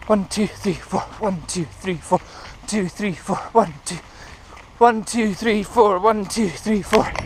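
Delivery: brisk one, two, three, four; quick count. Shown as a demonstration. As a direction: count fast, small steps. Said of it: "What you want is this".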